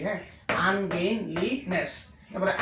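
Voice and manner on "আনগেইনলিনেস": "আনগেইনলিনেস" in four separate syllables; softer teaching read of "আনগেইনলিনেস", each syllable apart. Shown as a demonstration. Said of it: "যারা উচ্চারণ করতে পারে না". (ভেঙে ভেঙে উচ্চারণ)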